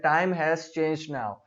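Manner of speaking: "changed" said with the d barely sounded; slow model reading, "changed" with a very light d; American-accent pronunciation. Shown as a demonstration. Teacher showing learners the American way, "changed" with a faint d. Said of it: "किस तरीके से American accent के अंदर इसको pronounce किया जाता है".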